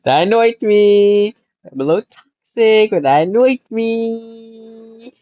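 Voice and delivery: slow, drawn-out annoyed complaint. Real, not acted. Viewer complaining about the ending, drawn-out annoyance. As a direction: drag out the words in annoyance.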